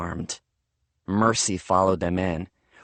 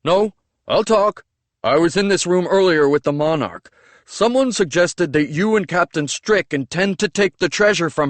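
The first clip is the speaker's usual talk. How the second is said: higher, louder, urgent Avenian servant voice; Avenian accent; 7 semitones higher, 5 dB louder than usual. Acted. Servant threatened with a cane, urgent in an Avenian accent. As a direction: blurt it out fast in the Avenian accent to avoid a beating.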